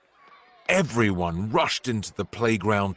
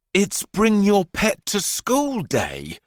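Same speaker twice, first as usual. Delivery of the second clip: higher, louder, slow flustered teacher; spluttering teacher; 11 semitones higher, 4 dB louder, slower than usual. A narrator's reading. Teacher nervously explaining to the headmistress, a hint of a splutter. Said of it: "spluttered Mister Bright".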